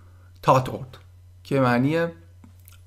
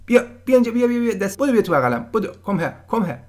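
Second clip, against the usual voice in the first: put-on calling a child; 8 semitones higher, faster than usual. Shown as a demonstration. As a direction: call the child over sweetly, arms open. Calling a child to come over. (صدا زدن بچه با لحن بلند و مهربان)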